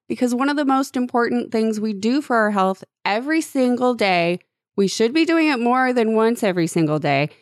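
upbeat sponsor ad read. Acted. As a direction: pitch the product like an announcer. Host reads the sponsor ad.

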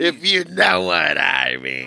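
slow, loaded, knowing; slow suggestive drawl on know; suggestive innuendo. Acted. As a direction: lean on it like a wink. Repeats line with suggestive weight.

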